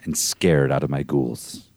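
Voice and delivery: low, hushed spooky telling; storyteller voice. Acted. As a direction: read it like a campfire ghost story. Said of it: "let me get my storyteller voice ready".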